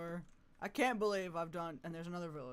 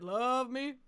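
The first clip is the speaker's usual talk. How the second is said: higher, louder playful insistence; insistent repeat; 7 semitones higher, 8 dB louder than usual. Pretend. Streamer to her horse, insisting playfully. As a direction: repeat it like a pushy owner. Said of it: "I said".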